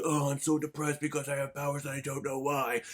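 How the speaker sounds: mock mopey whine. Reviewer mocks the film's mopey hero in a mild mock-sad voice. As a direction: mimic a brooding teen hero. Mocking a mopey character's dialogue.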